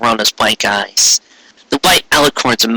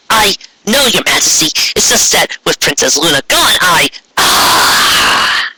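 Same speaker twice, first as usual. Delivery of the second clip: flustered stammer; 6 semitones higher than usual. Acted. Trixie flustered, cut off.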